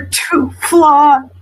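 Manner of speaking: crying. Real, not acted. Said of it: "I'm crying".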